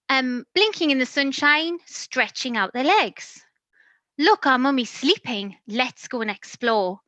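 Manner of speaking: lively, sing-song storybook reading; animated picture-book narration; reading to children. A narrator's reading. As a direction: read it like bedtime to a toddler.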